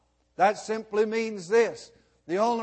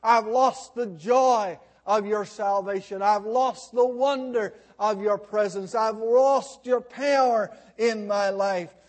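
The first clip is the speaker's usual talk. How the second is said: mildly raised, pleading preacher's cry; retold crying out. Preacher quotes weeping David before God, in a pleading cry. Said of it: "he cries out and he says".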